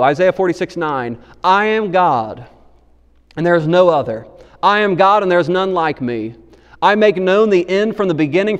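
slow, solemn reading of God's words; a solemn pulpit reading, unhurried; scripture reading. Acted. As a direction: read it weighty and deliberate.

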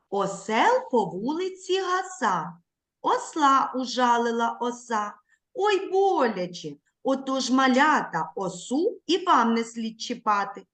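rhythmic, sing-song poem reading; poem for children. Acted. Teacher reciting a poem to young children, sing-song. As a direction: read the verse with a bouncing beat.

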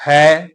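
ਹੈ with a clear, open "ai" vowel; vowel demonstration. Shown as a demonstration. Teacher spells out the vowel, careful ਹੈ with open "ai". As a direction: say ਹੈ alone, holding the open "ai". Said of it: "ਹਾਏ ਉੱਪਰ ਦੁਲਾਈਆਂ".

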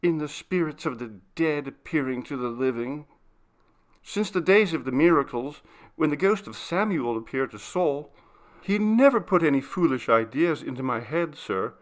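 respectful maid telling of her fear; timid servant girl, uneasy. Acted. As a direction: recount it earnestly as the young maid.

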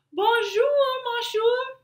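high, bright sing-song bonjour; cheerful greeting. Acted. Zookeeper's son greets the lion in a high cheery voice.

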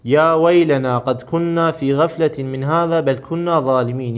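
slow, projected scripture reading; Quran verse reading. Acted. Teacher re-reads the verse for the class, slow Quran reading. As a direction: recite it deliberately with long vowels held.

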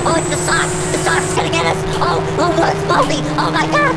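very high, loud yelling on the run; escalating gamer panic, squealed at the peak; frantic panic. Real, not acted. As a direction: shriek urgently as the chaser closes in. Chased by Baldi near last exit.

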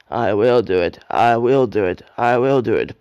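loud, determined puffing chant. A narrator's reading. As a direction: push every word out with effort. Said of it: "puffed Edward".

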